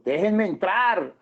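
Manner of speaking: laughing "Déjenme entrar", drawn out; pleading with a laugh. Retold or imitated. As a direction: beg to come in through a chuckle. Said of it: "Pedro continuaba tocando".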